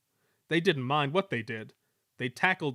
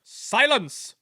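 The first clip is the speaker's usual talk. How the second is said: much higher, loud order; commanding silence; 11 semitones higher, 9 dB louder than usual. A narrator's reading. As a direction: bark for silence. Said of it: "ordered a well-known voice".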